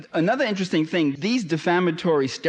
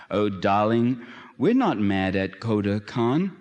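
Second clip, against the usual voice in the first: tender; 3 semitones lower than usual. Retold or imitated. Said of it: "The British colonel answers tenderly".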